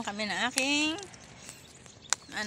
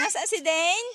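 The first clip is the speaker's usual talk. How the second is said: laughing; 7 semitones higher, 4 dB louder than usual. Real, not acted. Playful search with toddler.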